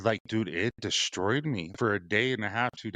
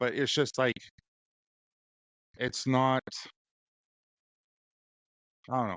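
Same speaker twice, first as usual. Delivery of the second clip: teary, halting words, on the verge of tears; 3 semitones higher than usual. Telling Dad something really bothered them: tearing up. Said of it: "I'm kind of tearing up".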